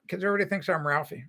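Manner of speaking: normal talking voice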